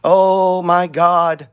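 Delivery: slow, drawn-out mock panic; voicing a panicking trader, slow and stretched; mock freaking out. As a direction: play the chart guy losing it, slowly. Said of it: "This guy over here is just freaking out".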